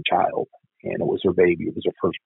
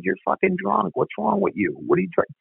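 retold scolding; 12 semitones higher, 3 dB quieter than usual. Confronting drunk sister at night.

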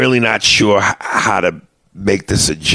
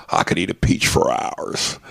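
Nick Cage; 5 dB quieter than usual. Acted. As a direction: quote it like a hushed film villain. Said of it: "Nick Cage from Face Off".

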